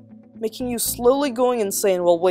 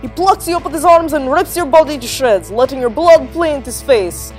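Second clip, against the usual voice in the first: loud, higher, menacing build; menacing climax; 7 semitones higher, 7 dB louder than usual. A narrator's reading. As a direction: hit them with the horror. Scary story climax, grabbing boys.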